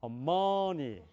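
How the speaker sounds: 어머니 with the middle syllable punched; stress on the middle. Shown as a demonstration. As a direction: push the 머 in 어머니. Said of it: "여기에 강세가 있을 경우는". (가운데 강세)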